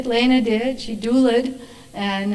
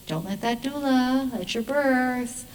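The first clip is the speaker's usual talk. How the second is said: little devil on the shoulder; 3 semitones higher, 4 dB quieter, slower than usual. Acted. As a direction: draw out a mock sinister warning. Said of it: "little devil on my left side would say".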